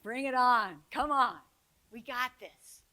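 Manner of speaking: rally the staff like a coach; team pep call. Retold or imitated. Staff rallying behind a student.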